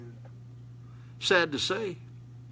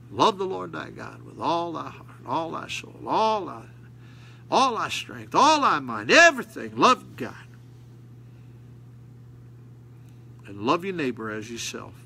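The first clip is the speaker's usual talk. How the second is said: reciting scripture. Acted. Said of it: "Jesus said".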